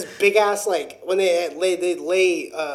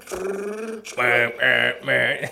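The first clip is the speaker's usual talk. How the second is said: machine growl; 6 semitones lower than usual. Retold or imitated. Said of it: "just going grrr".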